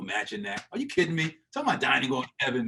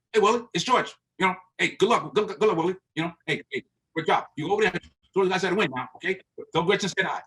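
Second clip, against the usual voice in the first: higher and louder, quick brisk boss; George Steinbrenner impression; 6 semitones higher, 4 dB louder, faster than usual. The Yankees owner leaving Willie a good-luck voicemail, quick and higher. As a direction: rattle it off like a busy boss on a voicemail. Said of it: "That's George, real quick and everything".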